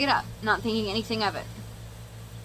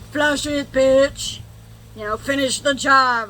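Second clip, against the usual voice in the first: egging on; 4 semitones higher, 8 dB louder, slower than usual. Retold or imitated. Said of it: "one of my friends was like".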